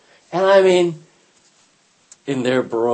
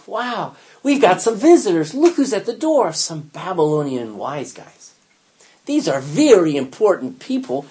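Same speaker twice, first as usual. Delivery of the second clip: airy-fairy delight; 2 semitones higher, 5 dB louder than usual. Acted. Hezekiah showing off to visitors, airy-fairy excitement. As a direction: gush over the guests. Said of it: "gets airy-fairy in his mind".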